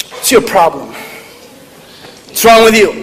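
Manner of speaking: brusque Irish mother's scolding; Irish mom. Acted. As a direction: demand answers like an unsympathetic Irish mom. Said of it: "I have an Irish mom".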